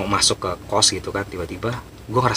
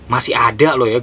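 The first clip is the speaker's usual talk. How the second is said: louder exasperated outburst; retold annoyance; 3 semitones higher, 6 dB louder than usual. Narrator annoyed the ghost child lingers, exasperated outburst. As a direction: call out the pest, fed up. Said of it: "saking gue keselnya".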